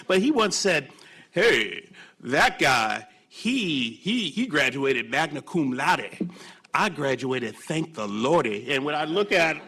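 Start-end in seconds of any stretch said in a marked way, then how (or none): 1.3-8.7 Fritz Hollins South Carolina drawl. Retold or imitated. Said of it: "in that South Carolina drawl".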